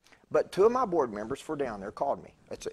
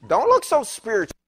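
laughing out a loud teasing jab; 7 semitones higher, 8 dB louder than usual. Real, not acted. Preacher laughing loudly at his own congregation. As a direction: tease them through a real laugh.

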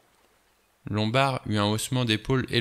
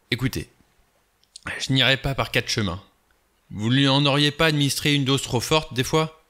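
pressing accusation; 4 semitones higher, 4 dB louder than usual. Acted. Blore presses the doctor hard.

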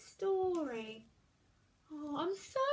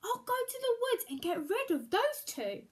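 stepmother voice; 7 semitones higher than usual. Acted.

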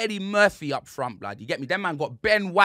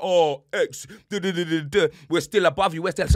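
mocking Arsenal fans. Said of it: "Arsenal fans were like".

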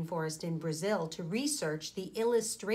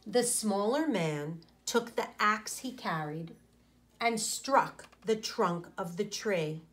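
put-on clear, gentle read-aloud for young listeners; storybook reading; 2 semitones lower than usual. A narrator's reading. Teacher reading a picture book to her class, story-time narration.

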